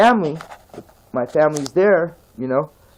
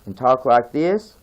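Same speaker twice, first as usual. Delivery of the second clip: switched into Southern country talk; country accent. Shown as a demonstration. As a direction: say it with a country accent, lifting at the end. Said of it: "I can just switch".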